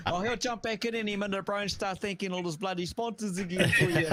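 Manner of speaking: laughing. Real, not acted. Joking that Seth will thank sponsors.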